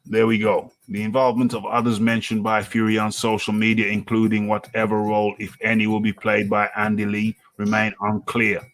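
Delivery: reading an article aloud, newsy cadence; news read. Acted. Host reads out news article.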